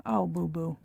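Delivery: lightly mocking pity; a patronizing little coo; mock-sympathetic sigh for a hopeless friend. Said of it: "some I'd be like".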